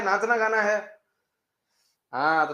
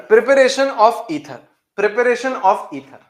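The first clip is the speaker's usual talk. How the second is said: slow dictation; 7 semitones higher, 8 dB louder, much slower than usual. Shown as a demonstration. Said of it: "teacher dictating the topic heading".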